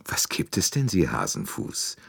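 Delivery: half-whispered teasing; joking. Acted. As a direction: tease her gently to ease her fear. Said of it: "scherzte Poirot".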